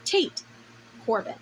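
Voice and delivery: yelling. A narrator's reading. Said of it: "It sounds like it's yelling".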